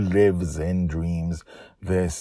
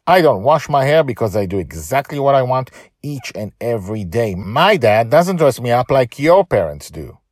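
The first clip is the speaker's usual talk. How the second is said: put-on higher, louder proud kid; young girl defiant; 7 semitones higher, 9 dB louder than usual. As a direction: stand up to them. Joy answers bullies.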